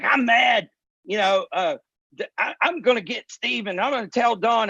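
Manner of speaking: serious voice. Retold or imitated. Imitating the partner threatening to tell on others, mock serious. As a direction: play a mildly indignant partner in earnest. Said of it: "he was in his serious voice".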